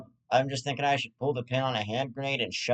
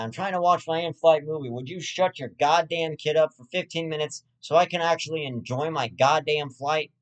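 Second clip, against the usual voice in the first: irritated passenger, slightly raised pitch; mock annoyed complaint; 4 semitones higher than usual. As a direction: act out pleading exasperation at a parent. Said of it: "and just not wanna yell".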